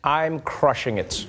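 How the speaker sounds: deliberate, incredulous echo; slow mocking repeat. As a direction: savour each word of the quote slowly. Host mockingly repeats the quote.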